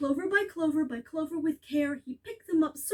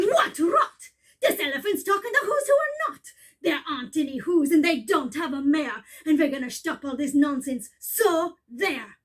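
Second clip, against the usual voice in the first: rowdy taunting shout; a hint of rough monkey brothers; jeering Wickersham monkeys; 3 dB louder than usual. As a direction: shout down the elephant.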